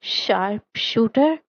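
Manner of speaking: slow, teasing stretch of the words; drawn-out words. Acted. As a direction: stretch each word slowly and lazily. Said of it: "साद ने अल्फाज को थोड़ा सा खींचा".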